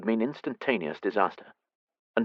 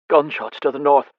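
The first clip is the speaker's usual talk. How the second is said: informing; 6 semitones higher, 6 dB louder than usual. Acted. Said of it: "Callum informed him".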